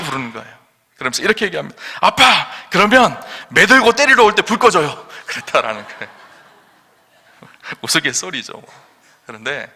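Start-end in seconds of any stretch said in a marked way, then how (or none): 2.0-5.1 put-on cheeky child. Child's cheeky reply to father.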